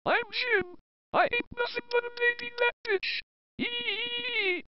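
mocking impression of a friend; Jim. Teasing Jim with an impression of him, mocking mimicry. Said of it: "see my Jim impression".

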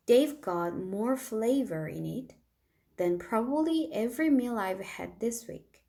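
very slow, clear reading of the sentence; teacher reads aloud. Shown as a demonstration. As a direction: read it slowly for learners. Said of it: "선생님이 읽어볼게요".

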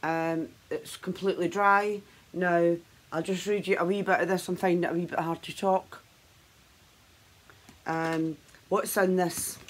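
barely moving cheeks and lips; talking with tight stiff face; through a stiff dried face mask. Real, not acted. Seen 0: Full dried pink mask covers face; she says talking is hard.

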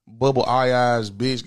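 slow mocking insult. Real, not acted. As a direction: drag out the insult scornfully. Insulting caller on air.

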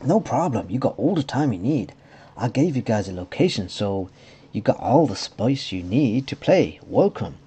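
sing-song stand-in voice, swooping pitch; put-on silly voice. Realm owner offering space, silly put-on voice. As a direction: voice him with a made-up silly lilt. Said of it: "I don't know what a Belgian accent is".

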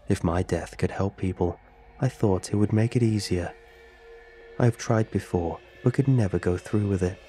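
flat monotone computer reading; robot voice. Acted. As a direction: say it like a text-to-speech program. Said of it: "The robotic voice spoke up once more".

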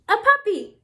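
high, loud exclamation; all excited. Shown as a demonstration. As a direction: read it with a big exclamation point. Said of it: "we say it all excited".

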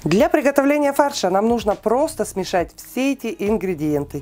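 ordinary talk

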